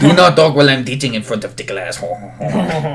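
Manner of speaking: lightly mocked French teacher, ho-ho tag; poor French accent. Student imitating teacher laying down rules, poor French accent. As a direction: badly fake a French accent. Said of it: "trying to do very poor French accent".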